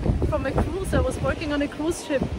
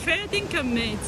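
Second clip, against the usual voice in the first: attempted Aussie accent; 4 semitones higher than usual. Shown as a demonstration. Teaching the date an unknown phrase, Aussie accent demo. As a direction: show how an Aussie says "fair dinkum, mate". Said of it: "sound more Aussie".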